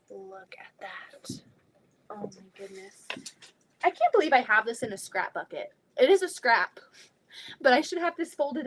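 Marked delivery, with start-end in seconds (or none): 0.1-3.1 whisper. Real, not acted. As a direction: hush it like a small treasure. Admiring fabric scraps.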